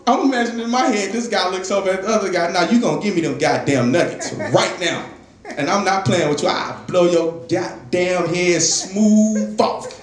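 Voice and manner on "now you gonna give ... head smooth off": mock threat. Acted threat over nuggets.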